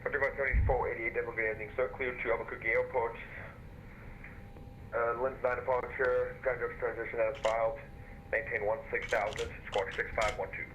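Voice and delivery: radio-filtered controller voice; crisp ATC over the headset; over a pilot headset. Real, not acted.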